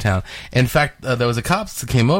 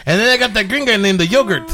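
put-on Hispanic accent; 9 semitones higher than usual. Prank caller to toy store in light Hispanic accent. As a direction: play a confused dad with a Hispanic accent. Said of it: "very Hispanic name".

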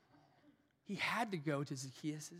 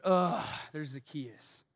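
disgusted; 6 dB louder, slower than usual. Retold or imitated. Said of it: "Most people said".

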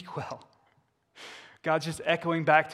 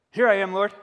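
higher, louder eager reply; zealous Moses; 6 semitones higher, 11 dB louder than usual. Retold or imitated. Young Moses answering God's call, zealous and loud. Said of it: "he's pretty zealous back then".

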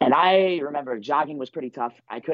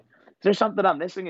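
confused question; 9 semitones higher than usual. Retold or imitated. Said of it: "I'm looking back at Coach Cole like".

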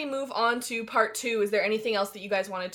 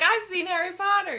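mock posh; 8 semitones higher than usual. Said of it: "He's like".

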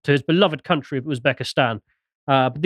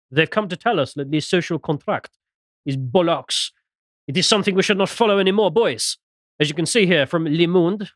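lightly put-on bad French accent; crap French accent; 2 semitones higher than usual. Host relays the French view on the social contract, mock French accent. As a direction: do a hammy, half-hearted French accent. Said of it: "I'm gonna stop doing the crap accent".

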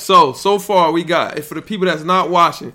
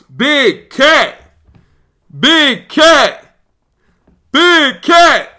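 each call higher and louder than the last; calling out, building; 7 semitones higher, 6 dB louder, much slower than usual. Real, not acted. Streamer calling out a draft pick, rising excitement.

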